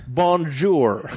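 badly faked foreign accent; Brad Pitt. Co-host mocking the actor's attempt, horrible foreign accent. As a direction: butcher it in an American accent. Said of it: "Brad Pitt was like, horrible".

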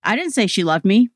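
me lifted and rising at the end; stress on ME. Shown as a demonstration. Coaching a listener through stress, me stressed. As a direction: lean on the word me. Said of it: "say the following sentences".

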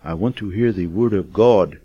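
imitated British accent, deliberate and measured; a light attempt at a British accent. Villager at the door asks the missionary, in a British accent. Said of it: "in a British accent".

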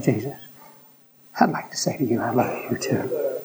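preacher recalling his midnight prayer in a motel; quiet prayer. Real, not acted. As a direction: speak it softly upward at midnight. Praying alone at midnight.

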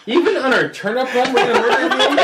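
high, loud laughing disbelief; incredulous teasing shout; mock outrage. Player laughs at the droid's violent plan, loud and high.

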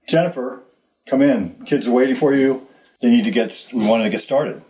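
mild mock yell. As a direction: call a child in firmly, not full force. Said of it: "So I yelled a little louder".

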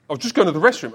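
put-on American accent. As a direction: imitate the American guy, voice lifted. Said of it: "he said it in American accent".

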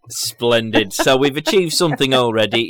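numb mouth, slightly slurred; numb from the dentist. Real, not acted. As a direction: talk through a numb mouth. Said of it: "my mouth doesn't work properly".

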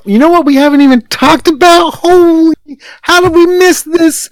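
sudden high, loud excitement; excited. Real, not acted. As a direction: burst out, thrilled at the discovery.

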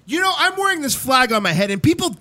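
loud, high, patriotic speechifying; hammed-up flag-waving speech; mock patriotic rant.

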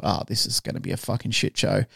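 low-key, softened aside to yourself; retold inner dread. Student thinking as a crowd gathers, retold quiet dread. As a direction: say it under your breath, expecting disaster.

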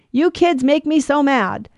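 mock scolding of the kids, dragged out; exasperated parent. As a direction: play the fed-up parent scolding the kids, slowly. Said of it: "as parents, sometimes it's like".

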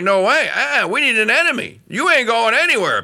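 lightly voiced scoffing hawk; half-hearted mock tough guy; mocking neocon. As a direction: toss it off like a smug warmonger. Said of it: "was like".

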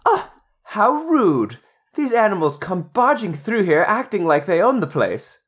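haughty little plant voice. Acted.

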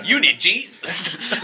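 slow menacing masked voice; Bane voice. Retold or imitated. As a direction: deliver it slow like a masked villain. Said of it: "He's like".

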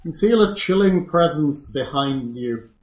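ominous game master narration; second person narrator. Acted. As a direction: set the creepy scene.

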